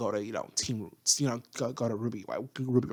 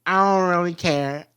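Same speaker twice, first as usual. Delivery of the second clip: careless attitude; 2 semitones higher, 5 dB louder than usual. Retold or imitated. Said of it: "Mercury's energy is like".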